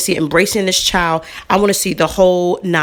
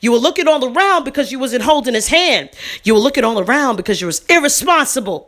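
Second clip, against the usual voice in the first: heated scolding; 4 semitones higher than usual. Retold or imitated. Confronting the negligent mother.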